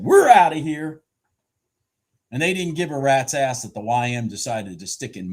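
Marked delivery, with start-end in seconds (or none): 0.0-1.0 sharks quoted. Acted. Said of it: "the sharks ... said".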